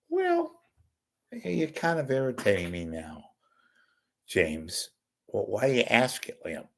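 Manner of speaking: high-pitched irritated actor impression; Joe Pesci. Pesci irritated by Lipton's question, high-pitched impression. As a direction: answer in a high, put-on voice, annoyed. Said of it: "Lipton to Pesci".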